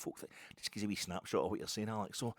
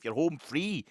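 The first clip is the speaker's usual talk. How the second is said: raised, louder quoted voice; Nate on the phone; 7 semitones higher, 7 dB louder, much slower than usual. Retold or imitated. Nate reassuring a getaway driver on the phone, louder quote. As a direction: proclaim it down the line. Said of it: "says Nate down the phone".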